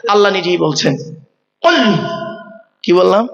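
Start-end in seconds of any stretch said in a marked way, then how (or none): 1.6-1.9 "কুল" with a deep back-of-throat q; deep-throated qaf. Shown as a demonstration. Preacher drilling Quran students, "কুল" with throaty q. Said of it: "দুটো কুলের মধ্যে পার্থক্য আছে".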